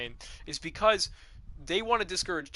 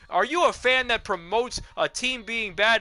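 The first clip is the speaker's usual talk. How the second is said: higher, louder hammed-up fan tirade; lightly voiced angry fan; mock fan rant; 6 semitones higher, 4 dB louder than usual. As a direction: rant at the tankers, breaking into a laugh. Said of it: "talking heads fans ... saying".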